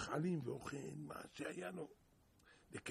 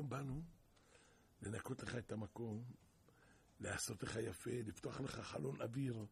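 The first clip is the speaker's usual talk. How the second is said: king's men calmly explaining to the prisoner, lower; lightly voiced messengers; 4 semitones lower than usual. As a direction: speak down, low and even, a hint of officials.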